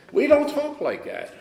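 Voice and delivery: high, slow, drawn-out mock refusal; firm refusal. Mother refusing her son's "I love you", firm refusal. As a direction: imitate a slow, insistent brush-off.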